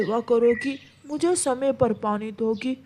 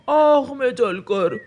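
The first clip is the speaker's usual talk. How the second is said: laughing taunt; slower than usual. Acted.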